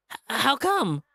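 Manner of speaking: high, stuttering scared question; frightened stammer. Acted. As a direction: stumble over it in fear.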